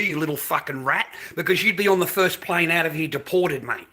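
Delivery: real, heated ranting; fed up and laying into them; angry rant. Real, not acted. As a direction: tell them off with forceful, sweary indignation.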